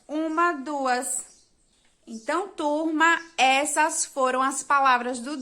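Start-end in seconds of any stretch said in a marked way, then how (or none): 0.1-1.2 teacher recounting syllables slowly; slow count. Shown as a demonstration. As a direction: count uma, duas slowly. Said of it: "tem duas sílabas".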